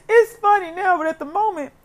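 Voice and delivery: real tears mixed with a laugh; laughing through tears. Real, not acted. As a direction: laugh it off while still choked up. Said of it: "got teary-eyed talking about my daddy".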